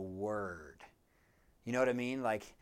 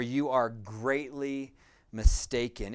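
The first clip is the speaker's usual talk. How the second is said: GREATLY leaned on, slightly slowed; added emphasis; 4 dB louder than usual. Retold or imitated. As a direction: quote it deliberately, weight on "greatly". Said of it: "he adds even more emphasis".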